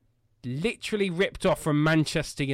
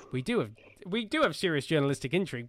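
laughing; 2 semitones higher, faster than usual. Real, not acted. Joking defence of their journalism.

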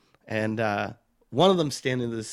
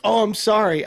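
mock apology; 10 semitones higher, 6 dB louder than usual. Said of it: "instead of being like".

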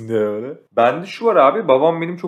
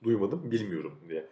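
ordinary delivery

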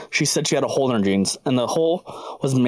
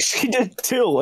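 much higher, outraged squeak; indignant protest; 10 semitones higher, much slower than usual. Retold or imitated. Worker protesting to manager, high and indignant. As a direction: shoot it up high in disbelief.

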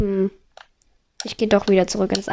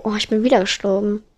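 ordinary talk

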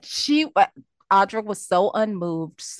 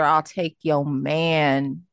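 sassy villainess; 5 semitones lower, slower than usual. Retold or imitated. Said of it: "old school Jill Foster".

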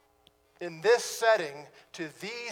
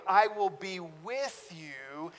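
soft sympathetic; 2 semitones lower, 4 dB quieter, slower than usual. Shown as a demonstration. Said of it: "in a kind of empathy or sympathy".

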